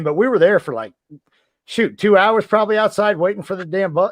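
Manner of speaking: ordinary talk, nothing marked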